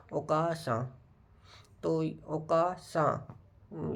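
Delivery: "ओकासान" with a long stretched a, okaasan; slow "ओकासान", each syllable drawn out; carefully saying mother in Japanese; Japanese word. Shown as a demonstration. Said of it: "सही से pronunciate हो".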